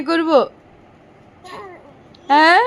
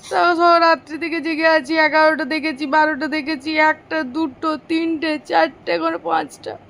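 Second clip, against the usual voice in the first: sleepy and drowsy; 3 semitones lower than usual. Real, not acted. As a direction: drag the words out, worn out from a night awake. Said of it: "একটু ঘুমাতে দেয়নি আমাকে". (ঘুমঘুম ক্লান্ত গলায়, ধীরে)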